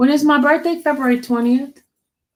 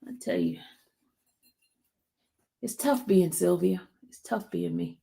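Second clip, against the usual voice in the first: mock self-pity; 3 semitones lower, 7 dB quieter than usual. Self-pitying aside after mock cry.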